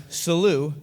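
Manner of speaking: "Salute" said the Italian way, sa-LU-te; Italian toast. Shown as a demonstration. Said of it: "we say in Italy".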